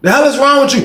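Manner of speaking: high, loud dare to the room; shouting a challenge to the whole cafeteria; high challenging shout. Retold or imitated. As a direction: square up to everyone. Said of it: "I said".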